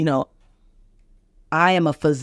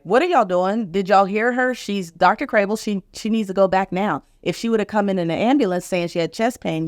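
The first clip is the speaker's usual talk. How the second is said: retold indignant challenge, pitched higher; indignant friend; 4 semitones higher than usual. Friend confronting ER staff for her, indignant. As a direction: take the staff to task, higher than usual.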